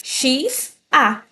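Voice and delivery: X then A said apart; sounding out. Shown as a demonstration. Teacher breaking chá into sounds for students. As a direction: split chá into its two sounds. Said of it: "Tivesse falando um X".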